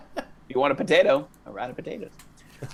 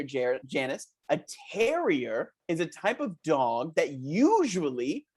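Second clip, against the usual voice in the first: put-on chirpy children's show host talking to kids; lightly voiced kids' TV host, upbeat; 2 semitones higher, slower than usual. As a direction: sell it like a cheesy kids' show presenter.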